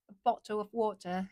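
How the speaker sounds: British "bottle of water", crisp T's; British accent. Shown as a demonstration. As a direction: demonstrate a careful British accent. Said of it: "you know, something like that".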